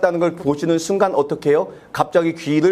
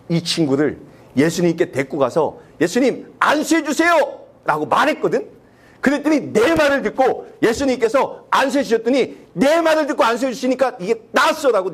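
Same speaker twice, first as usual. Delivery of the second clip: self-credit boast; 6 semitones higher than usual. Retold or imitated. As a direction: puff yourself up, taking the credit. Boastful retelling of own request. (높은 목소리로 자기 공을 자랑하듯)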